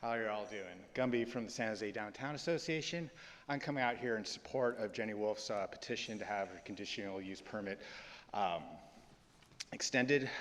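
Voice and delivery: panting a little after running; breathless from a quick run; out of breath. Real, not acted. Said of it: "a little out of breath running over here".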